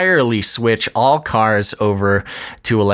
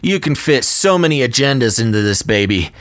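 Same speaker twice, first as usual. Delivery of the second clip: salesman pitch; 3 semitones higher than usual. Retold or imitated. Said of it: "and says".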